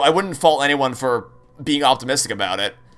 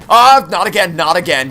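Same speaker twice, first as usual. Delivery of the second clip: frustrated cry; 4 semitones higher, 8 dB louder than usual. Real, not acted. Falls off cliff again.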